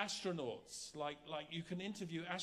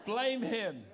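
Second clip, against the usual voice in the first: louder, higher playful accusation with a laugh; laughing mock blame; 6 semitones higher, 8 dB louder than usual. Preacher jokingly blaming the interpreter for running long, laughing. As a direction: point the finger, laughing.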